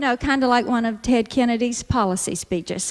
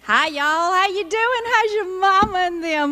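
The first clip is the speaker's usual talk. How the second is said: higher, drawled "How's your mama and them"; Southern greeting in action; 5 semitones higher than usual. Shown as a demonstration. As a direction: sing out the greeting like a Southern hostess. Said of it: "this is how Southern speak goes in action".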